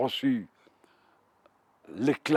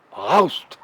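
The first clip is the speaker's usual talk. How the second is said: German shout; 6 dB louder than usual. Retold or imitated. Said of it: "et ils nous ont dit".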